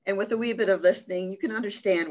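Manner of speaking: quick light Irish lilt on the words; little Irish accent. Shown as a demonstration. Presenter slipping an Irish accent into her travel talk. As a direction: slip briefly into an Irish accent. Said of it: "do my little accent there".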